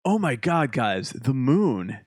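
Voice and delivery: imitating wide-eyed wonder, slowing right down; mock awe. Retells bandmate marveling at the moon.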